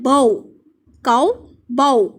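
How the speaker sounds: बाओ said as bow, rhyming with cow; model pronunciation. Shown as a demonstration. Teacher showing pupils how bough is read, clearly. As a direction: say बाओ, काओ, बाओ with an ow sound. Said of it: "हम इसको बफ नहीं पढ़ते".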